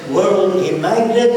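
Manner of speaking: put-on high, loud Arab-accented question. Arab leader astonished by the balloon trick, Arab accent. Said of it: "said in an Arab accent".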